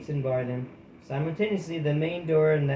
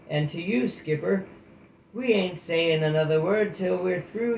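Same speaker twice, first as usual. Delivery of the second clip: put-on gruff old hedgehog. Hedgehog's cheeky reply from below.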